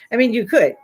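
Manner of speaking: fast, laughing through it. Real, not acted. Joking about the old washing machine, laughing. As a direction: rush it and laugh.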